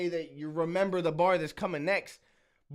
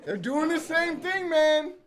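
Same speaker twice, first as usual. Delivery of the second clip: laughing disbelief; 8 semitones higher, 5 dB louder than usual. Real, not acted. Laughing at the replay.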